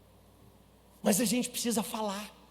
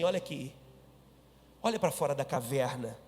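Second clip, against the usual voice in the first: low, soft, slow reassuring voice; God speaking tranquil and soft to Elijah; gentle voice of God; 7 semitones lower, 3 dB quieter, slower than usual. Acted. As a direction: speak like a calm breeze to the prophet. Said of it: "de uma forma tranquila e suave".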